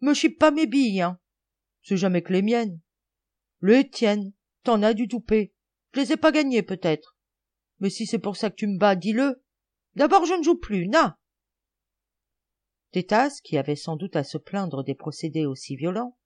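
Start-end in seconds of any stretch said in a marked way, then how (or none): 0.0-11.2 put-on high, loud childish squabbling; indignant quarrel. Boys fighting over marbles in a game, indignant quarrel. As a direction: bicker hotly, then sulk.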